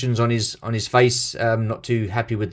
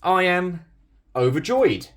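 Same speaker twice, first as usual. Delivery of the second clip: deadpan "overjoyed", pitched higher, dry sarcasm; mock overjoyed; 9 semitones higher, 4 dB louder, slower than usual. Real, not acted. Collector teasing viewers about his excitement, mock overjoyed. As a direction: sound overjoyed while obviously teasing. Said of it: "as you could tell by the excitement in my voice".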